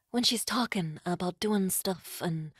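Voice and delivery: feeling out a New York diva voice; lightly voiced New York star impression; a singer. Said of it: "do my singer impression".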